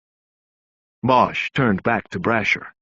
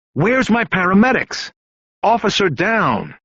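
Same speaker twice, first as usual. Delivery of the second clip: yelling for help; 9 semitones higher than usual. Acted. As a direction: shout it out for the medics, urgent.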